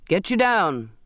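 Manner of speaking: cried order. A narrator's reading. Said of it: "Mister Hollybrass cried".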